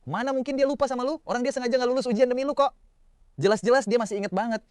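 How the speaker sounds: high, eager classmates egging him on; classmates whispering encouragement. Acted. Classmates cheering on the shy narrator, high and eager. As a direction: urge him forward, voiced high. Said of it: "temen-temen sekelas pada bisik-bisik nyemangatin gue".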